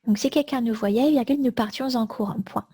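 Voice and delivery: dictating. Shown as a demonstration. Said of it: "Je répète tout le texte".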